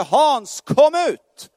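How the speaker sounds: high, loud call out of the grave; commanding call. Retold or imitated. Preacher voicing Jesus calling him out, loud ringing call.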